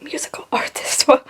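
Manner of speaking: usual speaking voice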